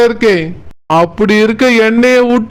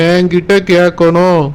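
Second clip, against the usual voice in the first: என்கிட்ட கேட்கணும் dropped much lower, muttered-down insistence; lower repeat; 5 semitones lower than usual. Acted. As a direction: drop the voice low on the repeat. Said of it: "repeats the demand". (தாழ்ந்த குரலில் மீண்டும் சொல்லுதல்)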